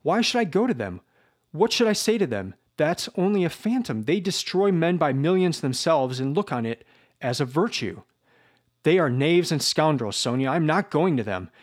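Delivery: high, heated self-defence; indignant, rising questions; agitated protest. Acted. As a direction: throw her plea back at her. Raskolnikov bitterly defends himself.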